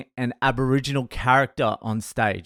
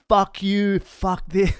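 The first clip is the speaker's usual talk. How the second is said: higher-pitched mock angry yell; retold yelling; 7 semitones higher, slower than usual. Bartender tearing strips off comedian, mock yelling. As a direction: imitate a furious bartender tearing into someone. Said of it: "just yelling at him".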